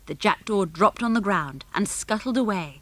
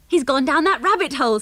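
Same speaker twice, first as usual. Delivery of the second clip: higher, gleeful exclamation; amused shout; 5 semitones higher, 4 dB louder than usual. A narrator's reading. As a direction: call it out with great amusement. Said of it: "with a shout of laughter".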